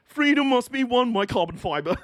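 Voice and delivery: mock rallying cry. Continuing mock battle cry.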